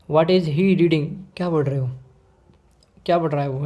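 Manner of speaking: loud start on "What is he reading". Shown as a demonstration. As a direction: ask it like you want the answer. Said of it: "इस तरीके से". (तेज़ आवाज़ में पूछना)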